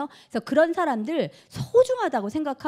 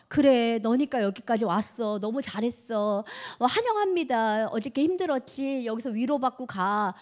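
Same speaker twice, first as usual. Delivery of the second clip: comforting. Retold or imitated. Voicing the comforting group leader.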